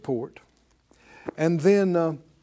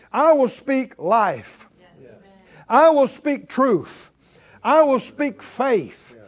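defiant declaration; 5 semitones higher, 6 dB louder than usual. Pretend. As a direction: declare it like an oath against evil. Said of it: "set your face and say".

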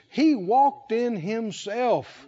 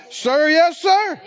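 loud, higher barked reply; drill sergeant; 6 semitones higher, 5 dB louder than usual. Acted. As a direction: bark it like a recruit at attention. Third louder military reply.

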